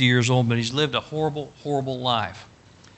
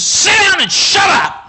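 retold shout; 9 dB louder, slower than usual. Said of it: "he's yelling at him and says".

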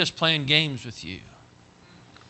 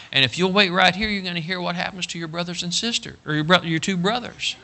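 higher-pitched, earnest reassurance; reassuring father; 6 semitones higher than usual. Acted. Father telling his son he loves him, earnest reassurance. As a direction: soothe a small son with conviction.

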